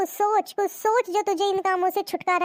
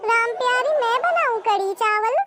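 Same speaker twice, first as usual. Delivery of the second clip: husband; 3 semitones higher than usual. Acted. Husband answers wife's wailing, lightly voiced and teasing.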